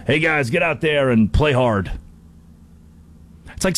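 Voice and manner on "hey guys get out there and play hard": lightly voiced movie-star pep talk; a hint of a put-on coach impression; Al Pacino. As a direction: send the team out in a put-on voice. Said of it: "Al Pacino".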